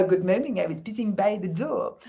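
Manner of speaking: lightly mimicked sitcom policeman with mangled vowels; mock policeman's mispronounced English; Arthur Bostrom. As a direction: put on the silly policeman's mangled accent. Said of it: "who was the English-speaking policeman".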